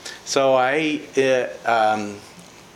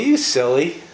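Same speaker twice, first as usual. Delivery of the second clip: tender chiding; 3 semitones higher, 3 dB louder than usual. Retold or imitated. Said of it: "He was tender with me".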